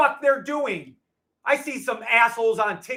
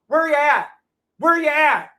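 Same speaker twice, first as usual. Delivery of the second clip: higher, louder taunt at the critics; taunting call-out; 5 semitones higher, 5 dB louder than usual. Real, not acted. Streamer daring critics to debate him, loud taunt.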